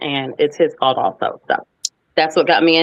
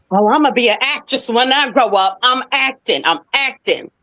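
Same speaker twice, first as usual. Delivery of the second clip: put-on giddy child; 8 semitones higher than usual. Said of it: "I said".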